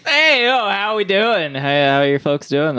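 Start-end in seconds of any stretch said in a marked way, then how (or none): 0.1-1.5 loud, high, hyped hello; loud greeting. Real, not acted. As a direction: burst in with a big hello. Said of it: "That was kinda loud".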